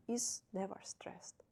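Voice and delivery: whispered aside. Real, not acted. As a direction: breathe it out unvoiced. Teacher makes a point.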